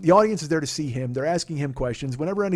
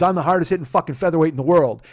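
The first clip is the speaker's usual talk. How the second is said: cocky boast; 6 dB louder than usual. Retold or imitated. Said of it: "He goes".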